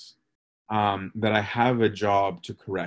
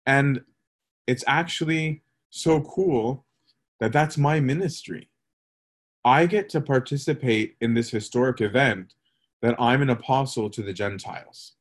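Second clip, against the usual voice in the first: excited Paul; 2 semitones higher than usual. Retold or imitated. Teacher voicing Paul excited about his ministry, mildly excited. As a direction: lightly voice Paul's delight at his mission. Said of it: "Paul is now excited to say".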